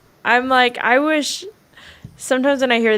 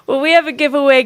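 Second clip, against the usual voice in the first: whispered laugh; 4 semitones higher, faster than usual. Real, not acted.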